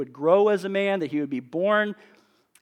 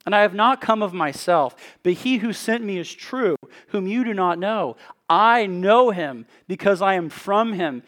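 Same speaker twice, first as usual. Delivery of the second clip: forceful scripture proclamation, voice raised; louder, emphatic reading of a cried-out speech; crying out; 3 semitones higher, 4 dB louder than usual. Acted. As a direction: declare it firmly to a whole crowd. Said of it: "Then Jesus cried out in the temple".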